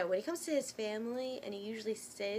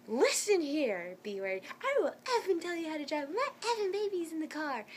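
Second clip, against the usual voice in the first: higher, indignant re-enacted tirade; mock fierce telling-off; retold angry comeback; 7 semitones higher, 4 dB louder than usual. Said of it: "I lost it that time".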